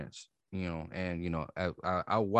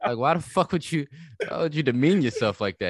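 retold scolding; 3 semitones higher than usual. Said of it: "I told this nigga, like".

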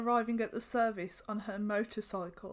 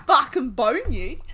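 laughing mock threat; 13 dB louder than usual. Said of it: "She said".

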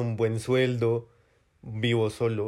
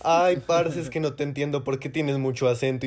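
whiny caller. Retold or imitated. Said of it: "cuando alguien me dice".

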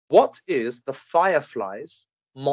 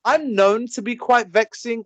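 put-on lightly accented quote, pitched up; Harley Quinn; 5 semitones higher than usual. Quizmaster giving friends a movie quote to guess, in a put-on accent. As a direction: put on a slight character accent. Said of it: "I can't do the accent anymore".

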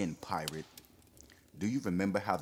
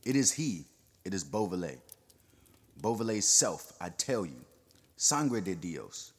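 agitated denouncing. Acted. Perronet denouncing his old enemy, fierce and excited.

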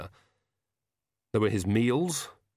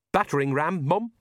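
Jason voice; 6 semitones higher than usual. Acted. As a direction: raise the pitch for a simple big son.

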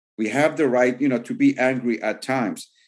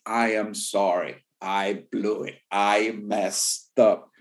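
sincere apology; 3 semitones lower, slower than usual. Shown as a demonstration. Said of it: "we need to be able to say".

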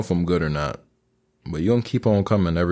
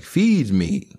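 higher, a hint of a demanding plant monster; lightly voiced Audrey II; Audrey II impression; 5 semitones higher, much slower than usual. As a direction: growl it like a hungry plant. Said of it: "Audrey two from Little Shop".

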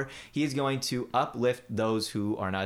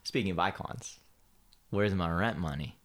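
gruff impatient scolding; 4 semitones lower, 4 dB quieter than usual. Retold or imitated. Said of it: "Mister Dankovich".

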